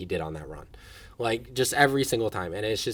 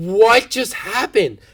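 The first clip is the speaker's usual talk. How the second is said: high, disbelieving, pitched-up mild yell; 9 semitones higher, 9 dB louder than usual. Retelling watching a pass play on the couch at night: imitating own past scream. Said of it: "and I was screaming".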